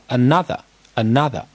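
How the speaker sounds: another 的重音落在第二音节 no 上; 读 another 时开头的 a 轻读，把第二音节读重; 第二音节重读. Shown as a demonstration. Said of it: "从第二音节重读的". (another 前轻，第二音节重读)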